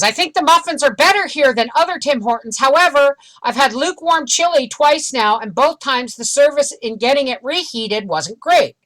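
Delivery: review read-aloud. Acted. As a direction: read out the complaints point by point. Reads online reviews aloud.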